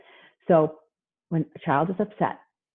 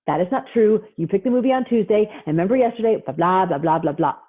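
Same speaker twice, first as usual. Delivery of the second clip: mock parental rebuttal, pitched up; arguing parent; 3 semitones higher, 4 dB louder than usual. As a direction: imitate a parent arguing point by point. Parent arguing back at child.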